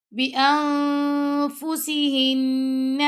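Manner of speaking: بِأَنفُسِهِنَّ with a thin light س and held nasal نّ; بِأَنفُسِهِنَّ, light seen, ghunna at end. Shown as a demonstration. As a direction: recite بِأَنفُسِهِنَّ with fine seen. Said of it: "سین کو ہم نے باریک پڑھنا ہے".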